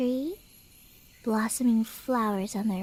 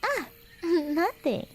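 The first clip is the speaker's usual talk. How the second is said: laughing it off; 4 semitones higher than usual. Acted. Covering up a slip with a laugh.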